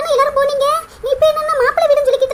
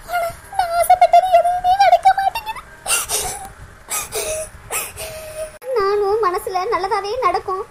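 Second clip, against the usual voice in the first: crying lament. Acted. Priya laments her blocked marriage.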